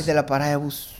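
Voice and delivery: breathy whispered echo; whispering. Real, not acted. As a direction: whisper it back. Repeats in a whisper.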